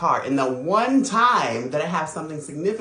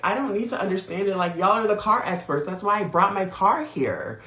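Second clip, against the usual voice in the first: exasperated; 5 semitones higher than usual. Retold or imitated. Retelling her reply to the shop.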